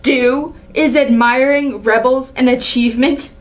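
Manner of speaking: scornful, indignant royal rebuke; a proud ruler scolding a young upstart; angry king. Acted. King berating his son, angry. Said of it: "Seeing the angry side".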